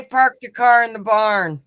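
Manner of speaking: the line he wants to hear in an accent; Park the car in the barn. Shown as a demonstration. Teases a friend, giving the accent test line.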